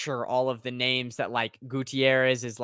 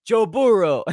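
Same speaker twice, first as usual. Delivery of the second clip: put-on Joe Burrow in a Spanish play-by-play accent, higher and louder; Spanish announcer's big rolling call of Burrow; 8 semitones higher, 8 dB louder than usual. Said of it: "when you hear the Spanish announcers cover the Bengals game".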